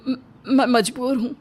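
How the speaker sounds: stammering, crying plea; tearful apology. Acted. Husband apologising to his wife, crying and stammering. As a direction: break down while pleading helplessness.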